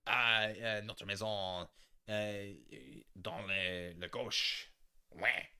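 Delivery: put-on hesitant Quebec French accent with filler euhs; playful Quebec accent parody; mock Quebec French accent. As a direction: fumble through like a mocked Quebec speaker. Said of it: "speaking with a Canadian accent".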